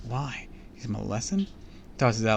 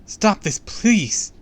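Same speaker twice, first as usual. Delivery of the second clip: high, loud begging; panicked appeal; desperate plea; 11 semitones higher, 10 dB louder, much slower than usual. A narrator's reading. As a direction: beg him frantically to stop. Begging Clark to free the kids.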